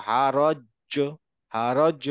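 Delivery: "হারজ" held on জ, then bounced; stronger echoing stop. Shown as a demonstration. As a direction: pause on the জ of "হারজ" and release an echo. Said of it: "একটু বেশি ইকো করে থামবো".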